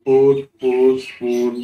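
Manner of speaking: পুট পুশ পুল said loud and clear, u sound sharp; model pronunciation. Shown as a demonstration. Teacher calling out model words to students, loud and clear. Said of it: "এই উচ্চারণ করছে".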